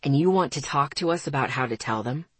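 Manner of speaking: low baritone, working it out; deep man's voice, piecing it together; surmising. A narrator's reading. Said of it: "he surmised".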